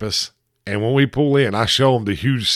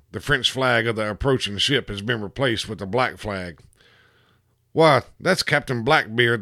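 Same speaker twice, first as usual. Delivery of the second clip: storyteller reading a pirate tale trailer; dramatic trailer narration. Acted. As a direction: narrate it like a movie teaser, lightly dramatic. Trailer narration with voiced characters.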